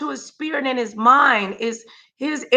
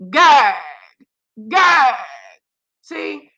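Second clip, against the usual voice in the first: mocking taunt; much slower than usual. Real, not acted. Mocking Trump gagging on video.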